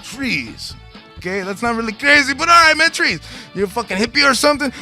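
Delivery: high, hammed-up radio host voice; gravelly metalhead. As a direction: play Paco Suave the game show host. Introduces self as Paco Suave, host voice.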